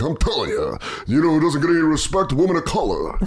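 a light Rodney Dangerfield voice lecturing; mock Rodney, preachy; comic doing woke Rodney Dangerfield. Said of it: "doing Woke Rodney".

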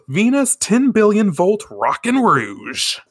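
high, slow anime battle cry; attack call. Acted. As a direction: proclaim a superhero's finishing move with hammed-up drama. Calling out a magical attack.

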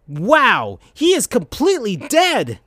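hushed then high; whispered gasp into a high cartoon voice; Sonic. A narrator's reading. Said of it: "said Sonic".

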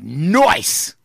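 goofy nice. Acted. Word joke, marked reading.

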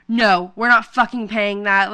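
firm mock refusal, each word leaned on; retold dad putting his foot down; indignant dad. Acted outraged dad refusing to pay.

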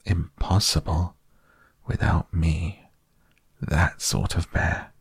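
a bear proudly telling himself he matters. Acted. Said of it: "said proudly to himself".

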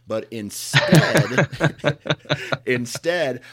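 laughing through the words; giggling, barely getting it out. Real, not acted. Laughing while telling awkward story.

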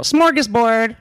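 high-pitched white-girl impression. Guest showing how he says it, mock white-girl voice. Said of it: "like a white girl".

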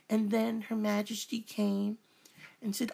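high-pitched mock British accent; put-on British accent. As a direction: narrate in a hammed-up British accent. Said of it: "had to talk like this".

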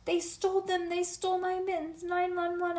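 high, urgent cries for help; shouting in alarm. A narrator's reading. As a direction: keep raising the alarm in a high voice. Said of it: "I shouted some more".

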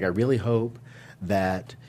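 lightly voiced politician impression, drawn-out ending; Donald Trump. Host mimicking the president at a Utah rally, lightly put-on accent. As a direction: draw out the last words in a mild mock-politician voice. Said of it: "am Donald Trump on the show today".

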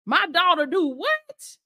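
slow, drawn-out disbelief; incredulous father asking; amazed question. Retold or imitated. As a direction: stretch it out, stunned. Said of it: "God be like".

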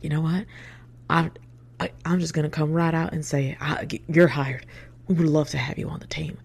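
imitated Southern boss making an offer; emphatic Southern-accented job offer; thick Southern accent. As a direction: announce it in a put-on Southern accent. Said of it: "with a thick Southern accent".

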